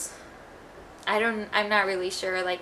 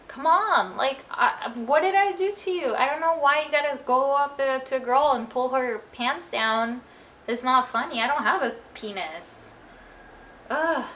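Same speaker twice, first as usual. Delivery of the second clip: exasperated protest; 3 semitones higher than usual. Real, not acted. To the boys who pulled her pants down, indignant protest. Venting at the pranksters.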